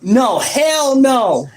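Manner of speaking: slow, laughing no; laughing refusal. Real, not acted. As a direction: refuse while chuckling.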